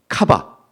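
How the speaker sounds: 카바 pronounced carefully, ka then ba; Hebrew word spoken for the congregation to repeat. Shown as a demonstration. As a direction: say 카바 slowly and distinctly so people can repeat it. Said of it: "여러분 따라해 보세요".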